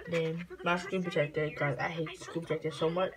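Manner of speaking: talking around candy in mouth; words slightly thick from a sweet; sucking a hard candy. Real, not acted. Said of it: "'cause I got candy in my mouth".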